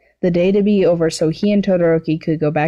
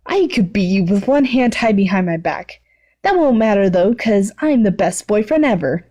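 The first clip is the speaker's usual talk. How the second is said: cocky declaration; 3 semitones higher than usual. Acted. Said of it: "Bakugo declared".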